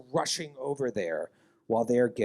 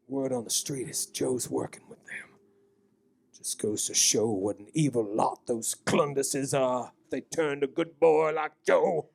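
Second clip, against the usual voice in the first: a lightly voiced old local, spinning town gossip; folksy old townsman. Game master to players, lightly voiced folksy old man. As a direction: tell it like a nervous old local.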